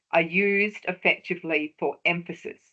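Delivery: "emphasis" leaned on at the end; stress on "emphasis". Shown as a demonstration. Lecturer showing light and shade to researchers, stress on "emphasis". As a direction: land the line on "emphasis". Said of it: "I put the emphasis on the word emphasis then".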